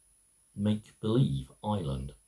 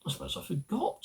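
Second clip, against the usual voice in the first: Wendy's reply; 10 semitones higher, 7 dB quieter, much faster than usual. A narrator's reading. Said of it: "said Wendy".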